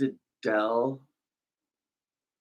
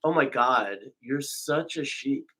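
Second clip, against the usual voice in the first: mock disgust; much slower than usual. Mock scorn at the other speaker.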